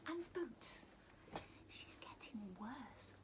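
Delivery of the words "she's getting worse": slow, much softer whisper. Acted. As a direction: whisper it like a secret to the children. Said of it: "whispered the elephant".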